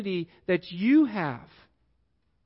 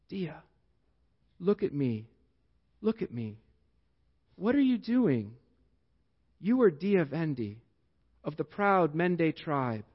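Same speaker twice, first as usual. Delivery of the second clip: lightly voiced African father's accent, low and tender; a hint of an African accent, soft and reassuring; 4 semitones lower, 4 dB quieter than usual. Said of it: "says in a thick African accent".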